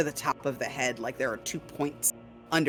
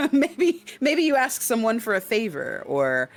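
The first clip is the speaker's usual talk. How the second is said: high voice; 7 semitones higher, 4 dB louder than usual. Acted. Inner voice continued.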